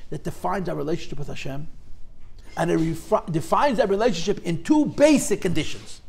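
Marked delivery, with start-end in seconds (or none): 4.6-6.0 light emphasis on "basic"; stress on BASIC. Real, not acted. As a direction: lean a little on the word "basic". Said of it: "Emphasis on the word basic".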